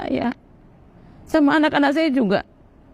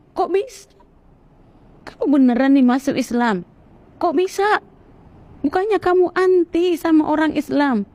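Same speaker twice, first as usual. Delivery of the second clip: higher-pitched incredulous questioning; retold disbelief; 5 semitones higher than usual. Fellow Muslims questioning her conversion, retold in disbelief. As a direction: imitate astonished acquaintances pressing for an answer.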